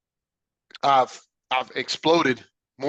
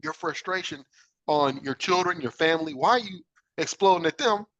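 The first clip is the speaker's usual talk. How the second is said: self-questioning; 4 semitones higher than usual. Retold or imitated. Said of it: "I would ask myself".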